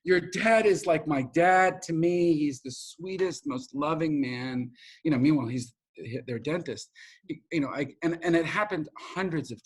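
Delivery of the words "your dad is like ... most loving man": gushing, stretched-out imitation of a fan. Grateful patient praising his dad, gushing. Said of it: "like, gushing".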